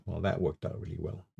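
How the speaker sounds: dry, soft sarcastic remark. Pretend. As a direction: say it deadpan, meaning the opposite.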